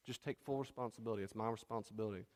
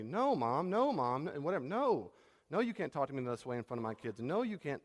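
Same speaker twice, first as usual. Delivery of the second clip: firm refusal; 2 semitones higher, 3 dB louder than usual. Retold or imitated. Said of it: "he's able to say".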